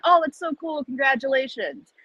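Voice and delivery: high, chirpy congratulations; impressed stranger. Retold or imitated. Strangers congratulating him on the street, lightly voiced. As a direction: gush like a polite stranger. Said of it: "And everyone's like".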